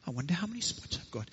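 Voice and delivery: soft muttering, as if alone; muttering to himself. Acted. Leopard wondering about his spots as he wanders, muttering. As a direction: mutter it softly to yourself. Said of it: "he was muttering to himself".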